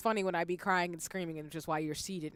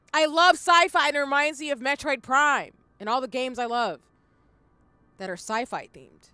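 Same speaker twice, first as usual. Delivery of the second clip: excited; 6 semitones higher, 10 dB louder than usual. Real, not acted. Gushing about loving sci-fi.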